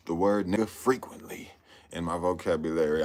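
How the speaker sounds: hushed confiding whisper. Real, not acted. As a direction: breathe it out as a secret aside. Confiding about a word.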